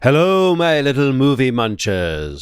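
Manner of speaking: hammed-up podcast host opener; mock host greeting. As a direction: ham it up like a cheesy show host welcoming fans. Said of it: "That's how I'm gonna start every show now".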